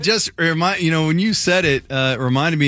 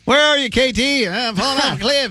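high puppet voice; 8 semitones higher than usual. Retold or imitated. Mimicking the puppet.

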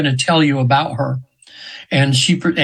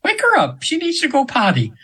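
much higher, airy otherworldly voice; imitating the angel, pitched far up; angel's voice; 11 semitones higher than usual. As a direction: put on the angel's lilting high voice. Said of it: "I'm almost using her voice now".

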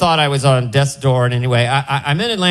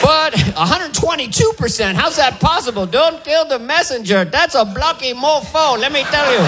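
put-on high, bright Indian doctor accent, much higher; 7 semitones higher than usual. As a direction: play the cheery Indian cardiologist. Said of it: "with that accent".

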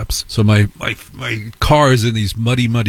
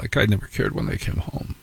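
whispered confession; 8 dB quieter than usual. Real, not acted. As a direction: whisper it like a guilty secret. Confessional aside.

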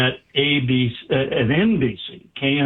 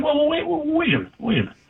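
much higher, hasty wait a minute; hurried wait; 13 semitones higher, much faster than usual. Retold or imitated. News director stopping the doctor from leaving, hurried. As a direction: rush to stop him walking away.

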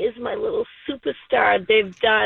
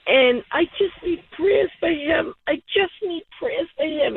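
choked up; 5 semitones higher than usual. Real, not acted. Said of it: "I'm, like, choked up".

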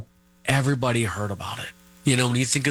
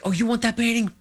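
mock-sarcastic retort, pitched much higher; lightly voiced angry mom, higher; 13 semitones higher, faster than usual. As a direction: toss off the line with mock sarcasm. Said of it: "And he's like".

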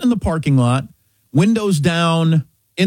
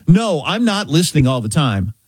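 matter-of-fact AI denial at usual pitch; assistant's retold denial. Car assistant answering the startled driver, an even denial. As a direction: deny it evenly, as the assistant. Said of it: "Are you listening all the time?".

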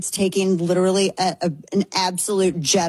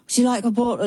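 imitating his British accent; lightly put-on British accent, a bit higher; a rock musician; 3 semitones higher, faster than usual. Concerned musician offering pregnant fan a drink, British accent. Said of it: "in his accent".

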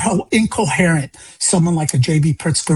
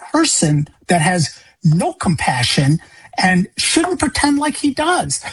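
higher-pitched, exasperated address to an absent official; indignant appeal; 3 semitones higher than usual. Retold or imitated. Grieving father addressing the governor who ignores him, indignant appeal. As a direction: plead indignantly, voice lifting on the key words.

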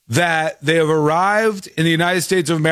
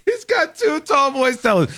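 excited exclamation; 8 semitones higher than usual. Real, not acted. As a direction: announce it in delighted disbelief. Marvelling at double-fisting fan.

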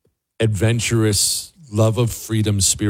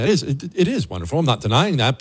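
ordinary talk, nothing marked

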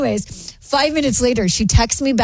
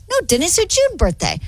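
higher, surprised insistence; retold protest; 8 semitones higher than usual. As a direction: correct him in disbelief. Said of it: "I was like".

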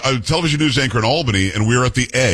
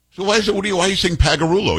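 incredulous questioning; 8 semitones higher than usual. Retold or imitated. Retells questioning his grandfather, pitched up.

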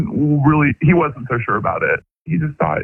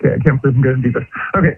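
rushed, nervous start; much faster than usual. Real, not acted. Caller about to confess on air, nervous. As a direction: rattle it off nervously before confessing. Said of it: "you sound so nervous right now".

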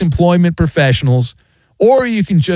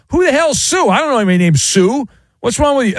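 high, fast indignant snap; hammed-up irritated clerk; mock angry; 9 semitones higher, faster than usual. Acted parking runaround scene.

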